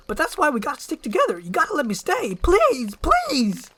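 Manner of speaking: desperate donkey pleading. Acted. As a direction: beg like your life depends on it. Donkey begs to stay.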